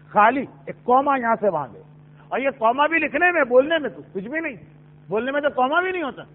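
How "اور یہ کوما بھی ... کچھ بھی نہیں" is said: ordinary talk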